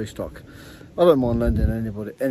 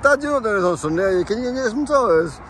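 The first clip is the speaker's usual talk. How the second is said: put-on higher, quicker pleading kid voice; imitating his son; 9 semitones higher, 4 dB louder than usual. Jake asking Dad for tyres, higher and quicker. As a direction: son nagging his dad to fetch tyres before Sunday. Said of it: "He's like".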